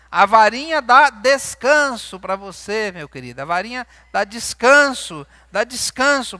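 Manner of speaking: loud and slow, driving each point home; preaching at full force. Acted. Pastor exhorting the congregation on discipline, loud slow preaching. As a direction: hammer the words dá descanso out slowly, like a pulpit sermon.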